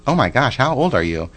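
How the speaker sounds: high, loud "oh my gosh" in mock amazement; surprised disbelief. Dentist amazed to hear her age, surprised exclamation. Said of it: "He couldn't believe that I was forty-one".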